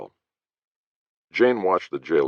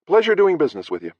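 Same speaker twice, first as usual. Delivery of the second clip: smiling sarcasm; 5 dB louder, faster than usual. Acted. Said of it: "Jane smiled and said".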